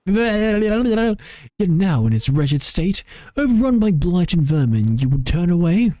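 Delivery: slow, indignant, lofty retort; lightly voiced proud ancient spirit; haughty archaic voice. Second adeptus rebuts.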